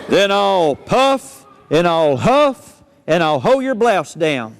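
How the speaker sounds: wolf threatening to blow the house down; wolf threat. Acted.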